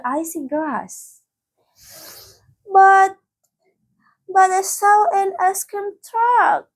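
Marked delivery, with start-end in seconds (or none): 2.7-6.7 high, bewildered stammer; puzzled protest, stumbling on the first word; confused. Acted. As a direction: barefoot girl in icy grass, confused and let down. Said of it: "she says, confused".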